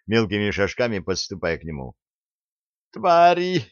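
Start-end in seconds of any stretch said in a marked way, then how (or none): 2.9-3.7 high, piercing squeal of rage; squeaky shriek. A narrator's reading. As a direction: shriek it in a tiny shrill voice. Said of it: "писклявым голосом закричала женщина".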